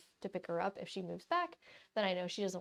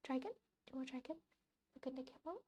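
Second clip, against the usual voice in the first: soft coaxing; 3 semitones higher, 11 dB quieter, much faster than usual. Real, not acted.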